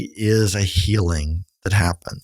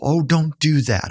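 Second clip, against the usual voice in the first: high, coddling hush-up voice; mock soothing; 7 semitones higher than usual. Counselor mimics people hushing a crier, high and coddling. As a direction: play the fussing comforter who stops the tears. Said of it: "We wanna get people".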